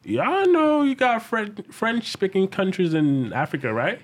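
slow and high, pointed disbelief; slow incredulous retort. Retold or imitated. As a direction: spell it out slowly, incredulous. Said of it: "I'm like".

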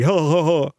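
smug put-on chuckle in another voice; a winking, hammed-up ha ha ha; mocking fake laugh.

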